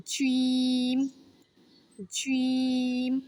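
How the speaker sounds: জিম pushed out with force; forceful jim. Shown as a demonstration. Teacher showing a forceful জিম. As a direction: give জিম some muscle. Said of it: "একটু জোর খাটিয়ে".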